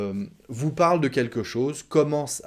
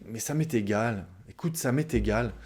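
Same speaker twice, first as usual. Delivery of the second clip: dismissive. Retold or imitated. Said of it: "C'est pas très, très gentil".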